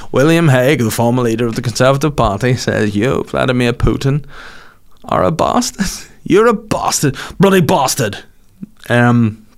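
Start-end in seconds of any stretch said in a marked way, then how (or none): 0.1-8.2 pompous verdict that tips into name-calling; William Hague impression. Hague declares Putin guilty, rising to a mock outburst. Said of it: "not a bad effort".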